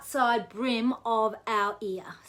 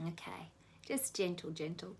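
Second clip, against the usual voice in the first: whispered cue, no voice; hushed whisper guiding the massage; 4 semitones lower, 12 dB quieter than usual. Real, not acted. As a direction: breathe the words softly.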